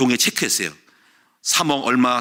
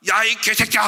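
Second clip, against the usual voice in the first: full-volume curse; 6 semitones higher than usual. Retold or imitated. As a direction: throw the curse out at full force. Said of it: "소리 톤이 이만큼이어서 백이었으면요".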